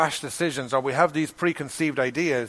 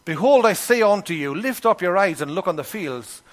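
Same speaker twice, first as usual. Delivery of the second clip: scripture reading; 2 semitones higher than usual. Acted. Reads scripture verse.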